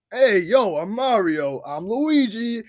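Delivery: lightly voiced regular guys, accent dropped; Mario and Luigi. Co-host imitating the brothers off camera, casual mock swagger. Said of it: "cuts away from the commercial".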